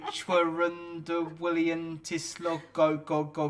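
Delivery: slow, loud platform announcer voice; train station announcement. Pretend. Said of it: "I'll start the announcement".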